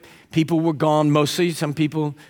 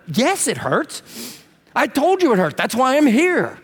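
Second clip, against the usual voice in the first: a patient fed up with the prodding; exasperated patient; 8 semitones higher, slower than usual. Retold or imitated. Patient annoyed at poking doctor.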